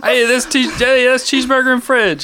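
announcer voice. Acted. Announcing a show title.

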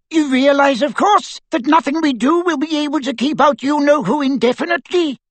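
very high squeaky wizard. A narrator's reading. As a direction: squeak out a grim doubt. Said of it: "squeaked Flitwick".

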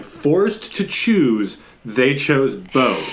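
slow, drawn-out mock trailer line; movie trailer voiceover. Host repeats the trailer line in disbelief, slow mock trailer voice. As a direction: lightly imitate a trailer narrator, stretching the words. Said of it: "doing the trailer voice".

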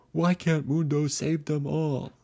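loud, slow anguished roar; raging at the heavens. Acted. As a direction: roar it up at the sky. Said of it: "he screamed to the sky".

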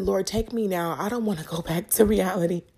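moved, pleading upward to God; getting emotional. Real, not acted. Begging the Lord not to return to earth, emotional. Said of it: "I'm getting emotional".

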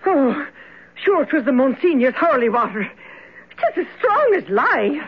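crying while talking; tearful. Acted. Shaken cleaner explains the holy water, through tears. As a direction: voice wet with tears and awe.

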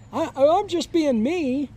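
lightly acted defensive comeback; mock protest. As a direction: plead your innocence, imitating a student. Acts Chris answering back in protest.

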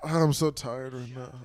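slow, put-on weariness; mock tiredness. Wife making excuses to her husband, slow mock tiredness. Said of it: "when you get, like, tired".

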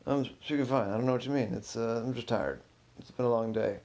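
lightly acted mumble, words run loosely together; mumbling. Phil excusing himself to the suspicious curator, mumbling. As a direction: mumble a little while insisting nothing is wrong. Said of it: "Why are you mumbling?".

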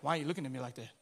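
low, soft, suspicious voice; touchy offended person. Retold or imitated. Preacher mimicking an offended churchgoer, soft and suspicious. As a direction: play the easily offended one. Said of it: "you're like".

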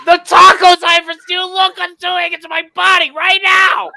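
high, loud, hammed-up tirade at the taco staff; mock outraged customer rant. Friend imagining the tantrum at Del Taco, high mock fury. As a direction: rant like a furious customer demanding a manager. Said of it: "So were you just like".

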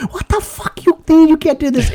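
high, strained mock rage; mock freak-out. Customer losing it at the drive-through attendant, high-pitched mock rage. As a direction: blow up in a high squeal of fury. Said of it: "He just loses his shit".

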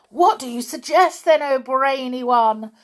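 high, loud eager cry; witches crying out. A narrator's reading. Witches to their leader, high eager cry. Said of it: "they cried out".

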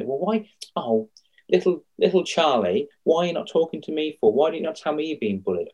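high mock-hurt parent voice; indignant parent. Parent asking little Charlie why he hid the bullying, in a high mock-hurt voice. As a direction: play the wounded parent, overdone. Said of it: "for them to say".

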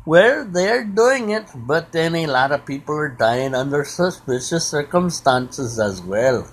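lightly put-on Indian accent; Rajneesh's Indian accent. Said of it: "I love that accent".

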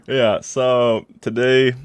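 mock German accent, slow. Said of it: "Why do you sound German".

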